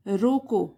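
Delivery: 'रोको' on its own, then stop; pause at comma. Shown as a demonstration. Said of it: "comma लग गया". ('रोको' कहकर comma पर विराम)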